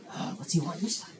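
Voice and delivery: very soft, groggy aside; weary grumble. Acted. Woken boy wonders what he wants, grumbling softly. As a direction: grumble to yourself as if half asleep.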